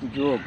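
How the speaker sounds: योग ending cleanly on g; योग as jog; correct pronunciation. Shown as a demonstration. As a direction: say योग without the final a. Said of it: "इसका सटीक उच्चारण होगा".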